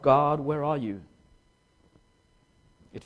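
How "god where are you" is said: crying out. Retold or imitated. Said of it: "I cry out".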